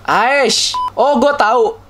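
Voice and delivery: high, loud outburst of recognition; real startled shout; sudden yell. Real, not acted. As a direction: yelp as it clicks who he is. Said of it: "Tiba-tiba teriak gitu".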